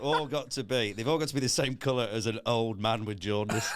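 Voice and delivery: laughing through the punchline. Real, not acted. Joking with friends about food colours, laughing through it. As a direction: talk through a laugh, then howl.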